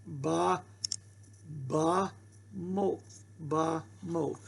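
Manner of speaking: teacher models ba mot slowly for the class; slow sounding out. Shown as a demonstration. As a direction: stretch each syllable of ba mot. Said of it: "See how you read that?".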